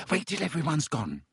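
nervous. Acted. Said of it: "said Hermione nervously".

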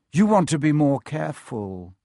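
smooth, veiled warning; understated menace; teacher toying with pupils; lightly voiced Snape. Snape warns the children.

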